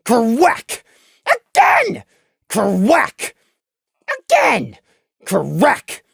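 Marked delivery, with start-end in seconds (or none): 0.0-0.8 low imitated magic blast; spell impact noise. A narrator's reading. Narrator imitates Lemon's stun spell, impact noise. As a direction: sound out a heavy hit.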